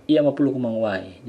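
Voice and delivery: mapulu kumang uwai rattled off fast. Shown as a demonstration. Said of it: "kalau kita percepat".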